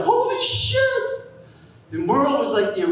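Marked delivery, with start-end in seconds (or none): 0.0-0.8 shocked. Retold or imitated. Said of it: "we're like".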